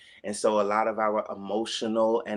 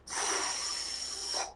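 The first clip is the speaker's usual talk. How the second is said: soft f exhale; 10 dB quieter than usual. Shown as a demonstration. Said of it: "exhale with a soft F sound and a U sound".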